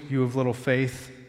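usual speaking voice

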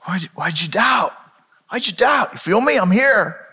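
Jesus assures sinking Peter, tender; reassuring. Acted. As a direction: hold him and calm him. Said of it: "he's assuring him".

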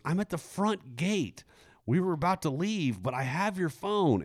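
lady quoted in a high voice. Retold or imitated. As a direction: pitch up to play the lady. Voicing the finder lady.

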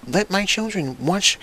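high, gushing mock parent; excited nostalgic parent. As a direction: gush like a nostalgic dad passing the torch. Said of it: "And it'd be like".

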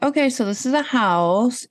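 unimpressed house viewer. Retold or imitated. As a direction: imitate an underwhelmed viewer, slowly. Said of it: "people being like".

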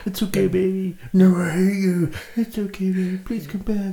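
high, pleading through an intercom; squeaky begging voice on a speaker. Retold or imitated. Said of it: "he's talking through the intercom".

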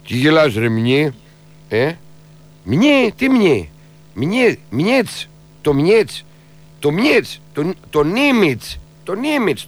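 slow, gruff regional cop; mock policeman from Agrinio; stern traffic cop. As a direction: play a rustic cop grilling the driver. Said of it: "και σου λέει".

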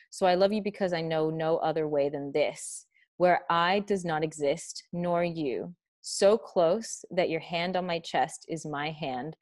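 measured love-sonnet recital, phrase by phrase; unhurried, sincere poetry reading; poem reading. Acted. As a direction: read it tenderly, letting each line land. Reads the sonnet aloud.

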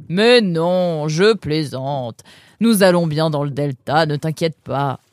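laid-back ferryman letting him off the hook; teasing boatman. Acted. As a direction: reveal the joke, then reassure. Boatman teases then reassures.

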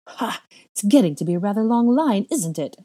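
high, loud, mocking delight; gleeful scoff, pitch climbing; snorting amusement. A narrator's reading. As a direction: crow over your growing list. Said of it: "she snorted in laughter".

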